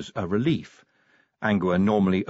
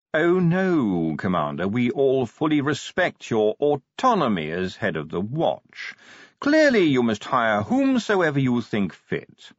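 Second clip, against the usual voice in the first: lightly voiced measured ruler, placating; slightly lifted, diplomatic reassurance; smooth conciliatory ruler; 3 semitones higher than usual. Ruler cutting in to placate his commander, smoothly measured.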